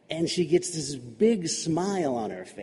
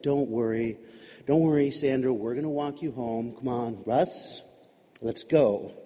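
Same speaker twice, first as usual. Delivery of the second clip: reassuring; 5 semitones lower, 3 dB quieter than usual. Acted. Dad reassures crying girl.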